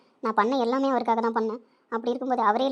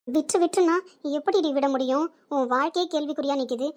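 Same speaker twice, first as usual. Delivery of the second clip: frustrated outburst; 5 semitones higher than usual. Acted. Friends quarrel over her decision.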